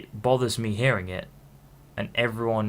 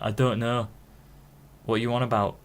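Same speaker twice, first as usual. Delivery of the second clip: imitating his old Hull accent. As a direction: answer back in a Hull accent. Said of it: "when I had the Hull accent".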